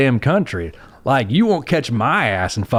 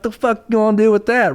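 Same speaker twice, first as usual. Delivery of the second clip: much higher, incredulous scoff; scoffing retort; 11 semitones higher than usual. Retold or imitated. Mocking a man with a tiny belt gun, high incredulous scoff. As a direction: sneer it like the gun is a toy. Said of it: "and I'm like".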